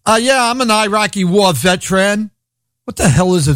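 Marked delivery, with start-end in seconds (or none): 0.1-2.3 "veteran" said the way those people say it; mock mispronunciation. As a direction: mimic their "veteran". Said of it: "people that pronounce veterans veterans".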